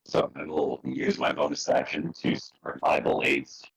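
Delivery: garbled, glitchy voice; speech chopped up by lag; call dropping out. Real, not acted. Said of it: "I can't understand you at all".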